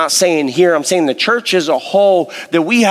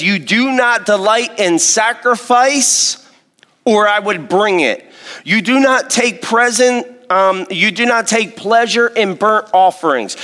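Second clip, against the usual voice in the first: higher-pitched, earnest imitated plea to God; crying out; 5 semitones higher than usual. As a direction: read it as David's raised-pitch cry to God. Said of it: "He's crying out".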